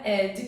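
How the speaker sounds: "ed" with open E and an extra final i; Portuguese-style ed. Shown as a demonstration. Teacher warning learners off it, "ed" pronounced as in Portuguese. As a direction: say "ed" the Brazilian way, like "édji". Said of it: "como a gente fala em português".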